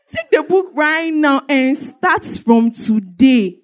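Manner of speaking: slow, drawn-out retold order; deliberate slow insistence; insistent command. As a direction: spell it out slowly so he obeys.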